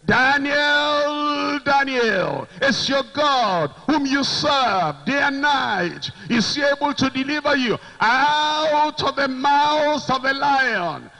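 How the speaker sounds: a king's lamenting cry into the den. Acted. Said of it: "with a lamentable voice, he cried".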